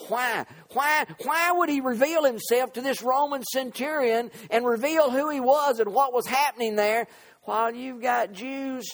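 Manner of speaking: high, driving pulpit questioning; impassioned preaching. Real, not acted. Preacher asks why God chose the centurion, impassioned preaching. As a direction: press the question on the congregation.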